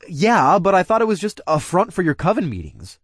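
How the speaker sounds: high, excited disbelief; surprised. Acted. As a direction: voice jumps up in surprise. Startled realization about bodies.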